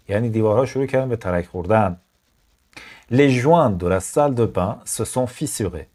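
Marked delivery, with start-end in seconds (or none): 3.1-5.9 slow, careful French read for learners; slow dictation. Shown as a demonstration. Teacher reading to learners, slow careful read. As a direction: read it out slowly and evenly. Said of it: "teacher reads French sentence slowly".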